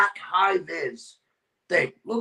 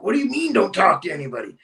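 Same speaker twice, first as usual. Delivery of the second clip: baffled echo; faster than usual. Retold or imitated. Guest replays querying the host on the phone, baffled. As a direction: throw the instruction back, puzzled and quicker.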